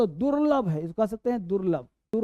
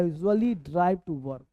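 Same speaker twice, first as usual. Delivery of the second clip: drawn-out teaching read; slow model sentence; 3 semitones lower, much slower than usual. Shown as a demonstration. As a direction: say it slowly for the class. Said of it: "teacher models sentence slowly".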